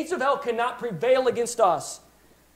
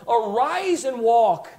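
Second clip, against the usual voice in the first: slow, drawn-out command with a little more volume; 4 dB louder, much slower than usual. Acted. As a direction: order him to rise, slowly and firmly. Peter commands the lame man.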